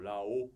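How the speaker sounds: "ラオ" with an open a gliding to o, not au; pronounced rao. Shown as a demonstration. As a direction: say "ラオ", a sliding into o. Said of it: "ラウじゃなくてラオ".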